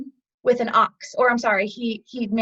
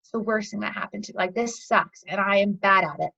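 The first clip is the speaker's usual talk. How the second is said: deflated, lower-energy grumble; acted low; 3 semitones lower than usual. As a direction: play being down in the dumps. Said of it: "and then we have our lows".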